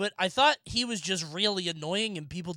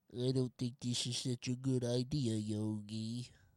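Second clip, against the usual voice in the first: droopy, very low, soft, drawn-out voice; 9 semitones lower, 7 dB quieter than usual. Recalling a Yogi Bear impression game, the speaker does Boo Boo's line, droopy Boo Boo voice. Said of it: "Boo Boo's just droopy".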